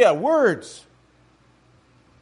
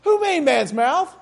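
God's firm rebuke; 7 semitones higher than usual. Retold or imitated. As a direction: challenge Moses firmly. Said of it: "what did he say to Moses".

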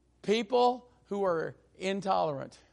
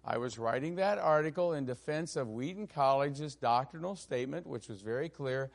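calm reply; 3 semitones lower, 4 dB quieter than usual. Retold or imitated. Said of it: "he started out very calmly and said".

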